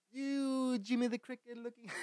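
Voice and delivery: high strained jeer collapsing into laughs; mock insult through laughter. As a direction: start a high taunt, then crack up.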